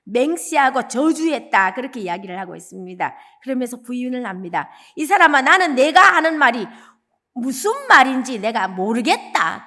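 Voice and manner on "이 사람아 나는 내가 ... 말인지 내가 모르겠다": louder, emphatic denial of knowing him; forceful denial. Retold or imitated. Peter cornered by his accent, denying louder. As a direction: deny it hard, pushing the words out. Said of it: "더 강하게 부인합니다".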